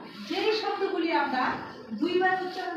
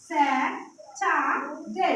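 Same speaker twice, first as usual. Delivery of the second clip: স্যা, চা, ডে spoken as three separate beats; syllable by syllable. Shown as a demonstration. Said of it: "কয়টা syllable?". (তিনটা syllable আলাদা করে)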